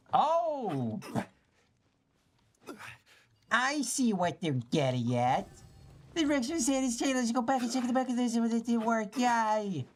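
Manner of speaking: high, fast, excited squeak; squeaky excited voice. Acted. Gamer cracking a puzzle, squeaky excited voice. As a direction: bounce up into a giddy cartoonish voice. Puzzle suddenly makes sense.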